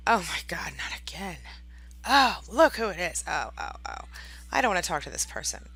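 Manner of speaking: put-upon groaning complaint; mock exasperation. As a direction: play up dread at who's calling, for onlookers. Acts narcissist dreading the caller.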